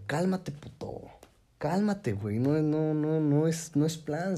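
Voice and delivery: high, urgent calls to calm down; half-shouting at a brawler to settle down; retold calming shout. Friends calming the neighbour mid-fight. (gritos altos para calmar a alguien en la pelea)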